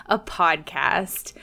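lightly bright, overly polite host greeting; customer service voice. Pretend. Host greeting listeners in a mock customer service voice. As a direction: greet listeners like a chipper help-desk clerk. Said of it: "That's my customer service voice".

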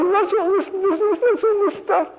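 high, put-on voice of a scoffing man; mock squeaky indignant voice. Preacher mimics the other guy scoffing at the warning, high squeaky voice.

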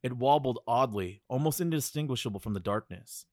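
measured spooky storytelling; story narration. Acted. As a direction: read it like a campfire tale. Continues scripted story.

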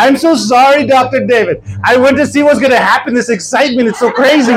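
sorry, still laughing; giggling apology. Retold or imitated.

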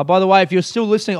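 fast, throwaway promo read; rushed aside. Real, not acted. Host rushing the podcast plug to listeners, fast and offhand. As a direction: hurry through the plug. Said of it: "oh, I'll fucking do this".

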